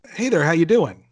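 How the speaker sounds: loud, cheery retold hello from the sandwich guy; chatty greeting. Sandwich guy greeting a customer, loud cheery hello. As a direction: boom it out like an overfriendly clerk.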